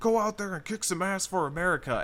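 high, loud, forceful yelling.

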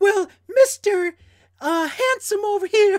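very high-pitched put-on woman's voice. Retelling what a woman said to him, in a put-on female voice. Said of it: "I got to use my female voice".

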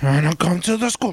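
mock wrestler growl. Imitating a wrestler cutting a promo: imitating a wrestler growling. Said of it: "all you hear is".

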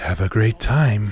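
breathy woman's voice. Describing a pinball table's multi-ball callout, the speaker imitates a breathy female voice. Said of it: "this breathy female voice going".

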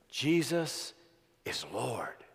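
hushed, secretive, conspiratorial half-whisper. Retelling what she said while co-workers might listen: imitating a half-whisper. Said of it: "and then she said in a whisper".

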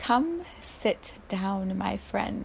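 put-on sweet, lovely, inviting voice. Quoting what she would say to the speaker, retelling her lovely voice. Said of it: "in this lovely voice".

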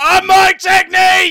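furious, high-pitched, loud angry shout. Playing an angry character whom people won't let be a character: angry shouting as Mike Technique. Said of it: "a man shouting into the void".

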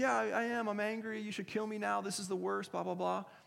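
acted sulky, self-pitying whine. Retelling the prophet's angry answer to god: imitating a pouty prophet. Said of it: "He's just a pouty prophet".

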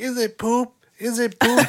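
play-acted very high, wailing, drawn-out child's scream. Telling about a kid who kept repeating one question, imitating a screaming kid. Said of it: "the kid that was screaming".

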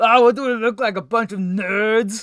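high, very loud, belted-out alien voice. Retelling a cartoon scene where Oglethorpe answers Frylock, Oglethorpe impression. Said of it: "That's your Oglethorpe impression".

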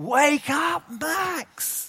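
very high, very loud shout. Asking the audience to help wake Max: very, very loud call. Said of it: "You do it very, very loudly".

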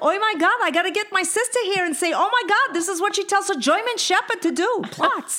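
high, excited exclamation with laughter.

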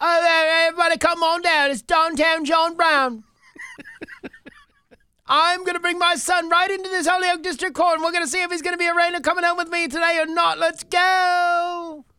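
very high pitch, final go stretched out. Reading a news story about a suspect's father, Julie Brown impression. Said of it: "That's a pretty good Julie Brown impression".

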